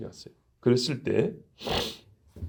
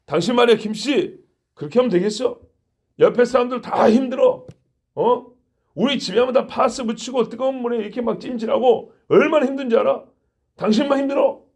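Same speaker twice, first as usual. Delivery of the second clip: higher, pressing rebuke to a coworker; 5 semitones higher than usual. Retold or imitated. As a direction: scold him as a fellow worker, not a boss. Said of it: "고용이 됐다 할 때".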